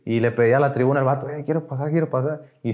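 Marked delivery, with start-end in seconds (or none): 1.3-2.4 small, mildly pleading quote; retold desperate plea. Waiting in his seat for the tribuna, mildly desperate plea. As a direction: imitate asking urgently, without raising the voice. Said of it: "y bien desesperado".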